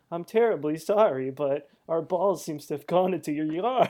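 lightly voiced overly polite kid; a hint of sheepish apology; mild mock-formal kid asking for the ball back. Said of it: "go up to them and be like".

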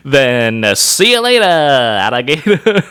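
high, nasal villain cackle voice; Skeletor voice. Acted. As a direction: sneer it like a cartoon villain. Skeletor voice after announcing it.

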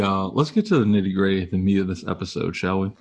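words a bit thick from a numb tongue. Real, not acted. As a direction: talk with a tongue numbed by ice. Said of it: "my tongue got kinda numb".

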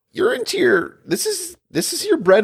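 high, laughing through the words. Real, not acted. Co-host teasing host about his topics, laughing high. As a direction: laugh while talking.

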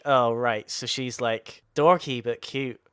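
slow, mock-dismissive imitation; sarcastic. Podcaster imitating his co-host's put-down of the show, mildly sarcastic. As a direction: imitate someone sarcastically summing it up. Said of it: "In a sarcastic, like".

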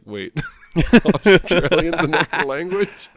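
high, loud, slow mock-kid voice; son's puzzled question. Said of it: "my son was like".

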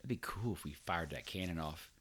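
lazy stoned buddy talk; lightly voiced stoned guy; stoner voice. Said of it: "and you're like".

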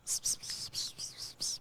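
rapid unvoiced psst-psst whispering; mock secret whisper. Co-host passing his number three by moth, mock whisper. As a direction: whisper wordless hissy nonsense, very softly. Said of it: "I'm whispering my number three".

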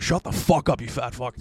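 mock angry comeback; losing it. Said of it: "Like, I just lost".

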